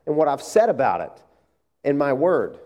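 a hint of God gently rebuking; God's gentle, loving rebuke, lightly played; lightly voiced God. God gently rebuking the worried pastor, mildly voiced. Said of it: "it's like God says".

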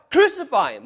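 loud, high crowd shout; crowd cry. Acted. Mob demanding Pilate crucify him, shouted.

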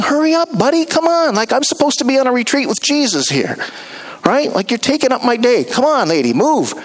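high, fed-up mock grumble; impatient grumbling. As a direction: hurry the crowd along, annoyed. Grumbling disciples acted out.

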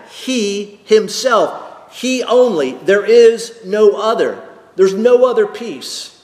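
rising, insistent emphasis; emphatic. Real, not acted. Preacher insisting there is no other peace, emphatic. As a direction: press the point home, building. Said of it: "it's emphatic".

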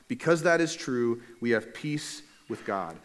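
deliberate, drawn-out verse reading; unhurried Bible reading; slow scripture reading. Real, not acted. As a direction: read slowly, giving each phrase weight. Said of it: "I'll read it slowly".

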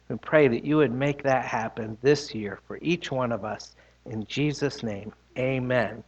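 hushed, fading prayer voice. Acted. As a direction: pray gently with the children. Leads children in prayer.

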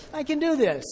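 the climax of a pep talk, all in; final punch of a building chant; triumphant self-encouragement. Retold or imitated.

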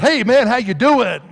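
loud, high, drawn-out hello; hearty greeting. Retold or imitated. Preacher retelling how he greeted the man in the store, hearty greeting. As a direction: call out a big overfriendly greeting, stretched out.

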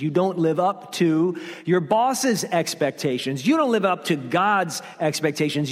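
insistent, piled-up accusations; mildly acted accusing voice; beating you down. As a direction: drive each repeated charge home. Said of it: "the voice is beating you down".

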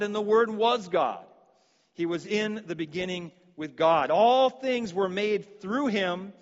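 scripture reading. Acted. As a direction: read it out as holy words. Reads John 1 aloud in sermon.

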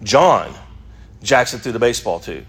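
John fronted and punched; stress on John. Shown as a demonstration. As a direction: hit John, then pause. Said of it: "The emphasis is on John".

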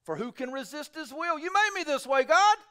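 high, rising complaint to God; objector complaining. Retold or imitated. Preacher voicing a hearer accusing God, high. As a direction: voice the hearer's protest. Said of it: "You will say to me then".

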